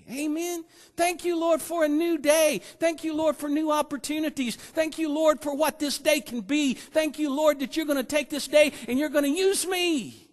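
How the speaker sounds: joyful thanks. Shown as a demonstration. Models joyful prayer of thanks.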